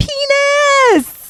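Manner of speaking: mock toddler yelling voice. Retelling a toddler yelling out the car window: imitating a toddler yelling. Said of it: "stick his head out the window and yell".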